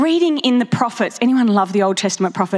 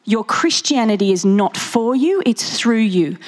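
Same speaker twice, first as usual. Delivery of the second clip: stern grandmother; 2 semitones lower than usual. Retold or imitated. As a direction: scold the full name lightly. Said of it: "she said".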